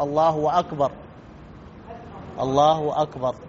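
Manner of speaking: الله أكبر said "Allahu wakbar", with a w between the words; added waw. Shown as a demonstration. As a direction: slip a "w" in before أكبر. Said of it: "بعضهم يزيد الواو". (زيادة واو بين "الله" و"أكبر")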